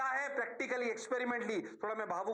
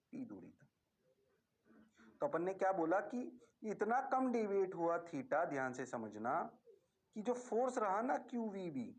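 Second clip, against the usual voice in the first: usual speaking voice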